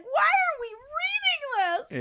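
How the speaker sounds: loud, high outraged cry; shouting why in frustration; exasperated shout. Retold or imitated. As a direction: yell it at the book in disgust. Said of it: "was like".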